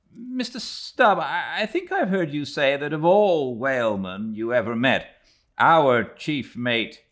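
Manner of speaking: high, loud, ironic questioning of Stubb; Ishmael, pointed question. Acted. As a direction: needle the mate with mock innocence. Narrator voices Ishmael questioning Stubb.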